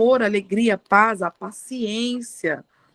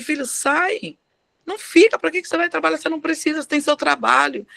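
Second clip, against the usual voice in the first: higher-pitched retold motherly urging; 4 semitones higher than usual. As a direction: plead with your son to walk away. Mother urging son to quit. (mãe insistindo com o filho)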